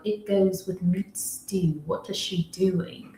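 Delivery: put-on hushed, slow, not-so-posh British accent; a soft, slowed British accent, played for laughs; mock British accent. Guest at the London table, murmuring in a British accent. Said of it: "my British accent clearly isn't posh".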